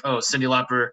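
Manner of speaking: imitating a friend's deadpan monotone; level, uninflected delivery. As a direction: say it with no rise or fall. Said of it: "monotone voice".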